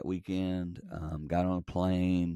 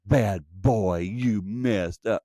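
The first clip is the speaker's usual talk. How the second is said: mock scolding; much slower than usual. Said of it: "is not him saying".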